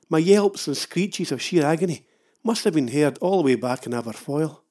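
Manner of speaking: ordinary talk, nothing marked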